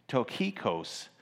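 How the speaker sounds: "Tokhikos" said slowly with a Greek ring, hard kh; careful "Tokhikos", stress on the last syllable; Greek pronunciation. Shown as a demonstration. Preacher tries the Greek name for the congregation, carefully. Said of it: "but in the Greek".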